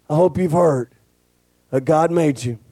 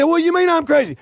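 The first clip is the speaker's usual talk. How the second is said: higher mock indignation, lightly voiced; indignant church lady; 12 semitones higher, faster than usual. Pastor quoting the church lady's retort, higher mock indignation. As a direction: play the offended lady taking umbrage. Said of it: "She said".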